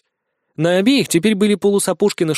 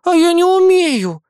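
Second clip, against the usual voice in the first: put-on high, slow, pouting girl voice; louder childish pout; 14 semitones higher, 5 dB louder, slower than usual. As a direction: sulk like a spoiled little girl. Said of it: "надула губы младшенькая".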